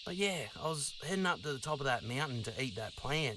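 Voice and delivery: a dinosaur suddenly remembering who he is; Donny the dinosaur. Acted.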